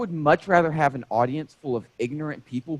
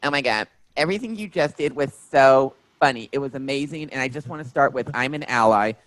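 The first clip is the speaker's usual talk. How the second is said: chirpy overeager fan gushing after the show; imitating the fan; 3 semitones higher, 4 dB louder than usual. Fan gushing to the comedian after his show, mock imitation. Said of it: "verbatim, in the same tone, cadence, and everything".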